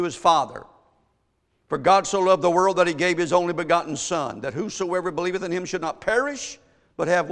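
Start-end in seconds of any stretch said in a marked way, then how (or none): 1.7-7.3 emphatic, raised scripture recitation; preached scripture reading. Acted. Preacher quoting a famous verse to the church, emphatic preached reading. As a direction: proclaim the verse to the congregation.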